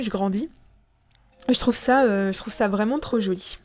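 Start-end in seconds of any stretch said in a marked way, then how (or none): 1.5-3.6 holding back hiccups; talking while stifling a hiccup; suppressing hiccups. Real, not acted. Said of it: "j'ai le hoquet".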